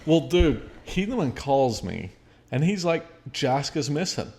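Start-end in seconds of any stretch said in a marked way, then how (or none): 3.3-4.3 everyday, matter-of-fact delivery of alarming news; retold as if nothing is wrong; totally normal, casual. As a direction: mimic his offhand report. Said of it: "it was totally fucking normal".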